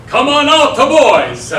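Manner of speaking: hearty loud call. Acted. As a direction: call the others out to join you. Calls his companions out.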